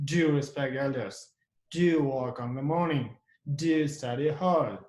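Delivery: each DO leaned on, falling after; stress on DO. Shown as a demonstration. Teacher demonstrating emphatic orders, stress on DO. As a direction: press the opening Do of each order. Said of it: "and you stress the do".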